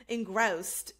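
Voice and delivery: Engrossed with a hard g and long o, Jersey style; Jersey pronunciation. Shown as a demonstration. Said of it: "worked so much on your dialect and your accent".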